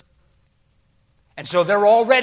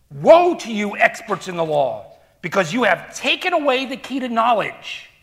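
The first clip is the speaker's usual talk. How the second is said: forceful scripture preaching. Acted. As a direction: thunder out Jesus' rebuke to the Pharisees. Preacher resumes reading.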